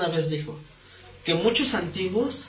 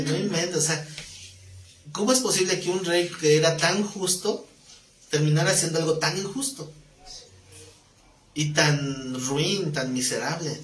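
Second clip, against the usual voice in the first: indignant scolding. Retold or imitated. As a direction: tell David off in disbelief. Imagined scolding of King David.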